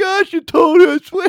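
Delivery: mock baby-like crying. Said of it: "crying like a baby".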